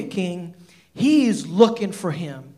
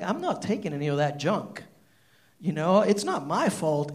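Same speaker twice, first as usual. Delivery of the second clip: bold reply; 4 semitones lower, 6 dB quieter than usual. Retold or imitated. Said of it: "with boldness".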